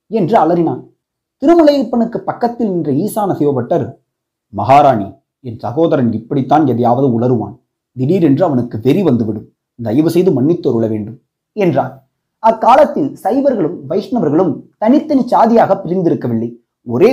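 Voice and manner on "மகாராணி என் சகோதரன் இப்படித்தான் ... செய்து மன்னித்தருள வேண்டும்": deep-voiced Saivite priest addressing the queen; temple priest voice. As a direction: lower voice of a respectful priest. Priest apologises for his brother.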